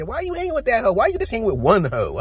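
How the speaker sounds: mock the guy in a squeaky high register; sarcastic high-pitched ribbing. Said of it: "talking like this".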